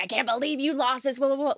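high, whiny nagging at her husband; mock complaint at husband over lost passport. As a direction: imitate a nagging wife, sing-song. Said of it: "bitch at James".

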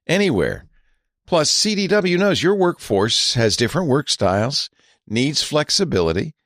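measured, deliberate ad delivery; sponsor ad read. Real, not acted. Host pitching business laptops to listeners, ad read. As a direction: read it like a polished radio host's sponsor spot.

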